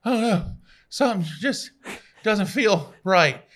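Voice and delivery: high, slow, whiny "oh no"; mock worried patient. Patient telling the nurse something's wrong, hammed-up worry.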